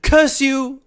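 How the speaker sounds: high, loud angry curse; upset curse. Acted. Ghost cursing the Sutradhar in a high, loud outburst. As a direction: spit the curse out at him. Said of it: "I'm not sure why I'm upset".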